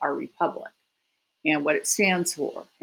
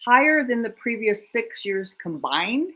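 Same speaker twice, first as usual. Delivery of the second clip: higher, slow incredulous question; real astonishment, pitched up and drawn out; disbelieving repeat; 5 semitones higher than usual. Real, not acted. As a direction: echo it slowly in real disbelief, ending on a rise. Disbelieving repeat of alarming figure just heard.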